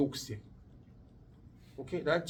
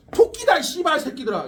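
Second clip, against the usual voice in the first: louder, higher mock-defiant outburst; mock defiance; 7 semitones higher, 7 dB louder than usual. Boy taunts rival gangsters, mock-defiant and loud. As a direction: throw the insult out loudly, playing brave.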